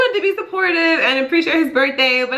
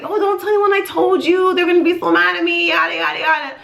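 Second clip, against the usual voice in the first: mock panic; 6 semitones higher than usual. Mom panics over spilled secret.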